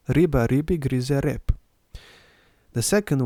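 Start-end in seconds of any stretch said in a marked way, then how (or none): 0.1-1.5 "Riba ribi grize rep" at a smoother pace, R trilled; teacher repeating the tongue twister; rolled Serbian R. Shown as a demonstration. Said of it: "here's how to pronounce it".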